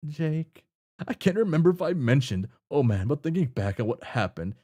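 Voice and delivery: casual rambling NPC, lightly acted; a hint of an oblivious adventurer; Jake's voice. Reading out the other character's lines.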